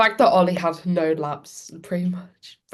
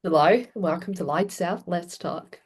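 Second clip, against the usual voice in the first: London accent; 4 dB quieter than usual. Shown as a demonstration. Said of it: "I want your best London accent".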